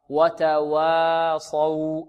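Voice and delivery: وتواصوا very slowly, with a pure light "waa", untilted; النطق الصحيح. Shown as a demonstration. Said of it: "و-، لا،". (ترقيق الواو في وتواصوا دون إمالة)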